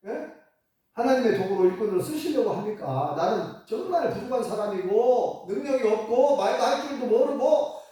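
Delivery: refusing excuse. Retold or imitated. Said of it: "계속 거절하면서".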